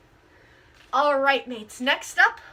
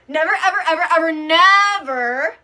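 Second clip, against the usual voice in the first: laughing; 6 dB louder, faster than usual. Acted. Hammed-up oath, laughing.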